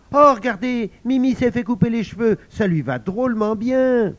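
high and loud chatter; excited kids. Acted. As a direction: greet friends after the holidays. Excited schoolchildren greet. (enfants excités de se retrouver)

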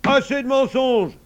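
high, loud command; angry shout. A narrator's reading. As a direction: cut them off as a furious father. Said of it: "cria Papa Saïd".

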